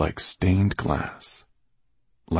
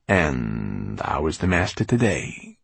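mocking; 3 semitones lower, slower than usual. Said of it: "no mistaking the mockery in his voice".

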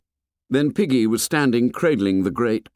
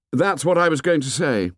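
higher, lightly voiced boy; earnest, with raised pitch; boy leader resuming; 7 semitones higher than usual. A narrator's reading. Ralph takes the conch from Piggy, earnest and higher.

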